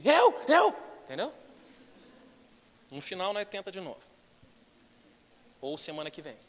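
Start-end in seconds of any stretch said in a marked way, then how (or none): 0.0-0.7 high loud eager shout. Shown as a demonstration. Pastor shows jobseekers how to shout, loud eager yell. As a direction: yell to be picked. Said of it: "você devia dar uns gritos assim".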